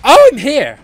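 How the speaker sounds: startled high-pitched blurt; voice went high. Real, not acted. Player surprised at where he is, high-voiced blurt. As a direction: let the voice jump up high. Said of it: "My voice went so high then".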